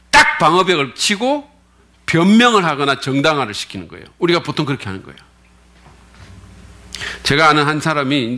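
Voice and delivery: ordinary talk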